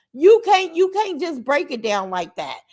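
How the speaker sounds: snapped out loud and sharp; angry outburst. Real, not acted. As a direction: cut her off in anger. Angry rant at a viewer.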